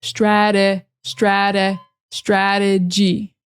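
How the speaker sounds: "strategy" slowly built up from stra-duh. Shown as a demonstration. Teacher drilling the word, slow syllables. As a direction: break "strategy" into parts, d for the t. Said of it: "sounds more like a D".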